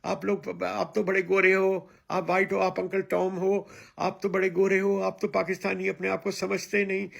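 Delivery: quick mocking jeer in Hindi; mocking his critics. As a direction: rattle off the accusations in a mocking voice. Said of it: "वापस मुझे शुरू कर दो कहना".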